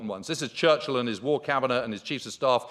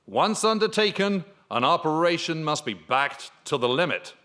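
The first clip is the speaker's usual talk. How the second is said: a light impression of an American army chief, pitched up at first; George Marshall; 3 semitones higher than usual. Quoting the US chief of staff, light practiced impression. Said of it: "practicing my Marshall, uh, impression".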